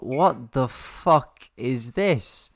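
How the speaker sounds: slow, stretched-out disbelief; drawn-out disbelief. Retold or imitated. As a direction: drag out each word in disbelief. Incredulous quoted reaction, drawn out.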